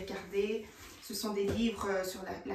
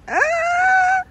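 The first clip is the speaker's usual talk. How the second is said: high laugh; 15 dB louder than usual. Real, not acted. High laugh after the chant.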